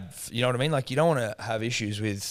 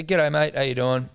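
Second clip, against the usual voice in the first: cheery greeting; 3 semitones higher, 4 dB louder than usual. Retold or imitated. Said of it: "And I go".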